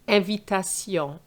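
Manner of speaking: Invitation said the French way, ahn-vee-tah-SYON, nasal ending. Shown as a demonstration. Teacher models the French word for learners, French pronunciation. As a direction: give Invitation its French sound, nasal final syllable. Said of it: "That's why we say invite".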